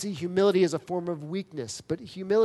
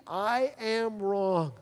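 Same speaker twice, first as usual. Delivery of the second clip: humble confession; 4 semitones higher, much slower than usual. Retold or imitated. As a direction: let the words fall, humbled. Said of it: "Jacob has to humble himself and say".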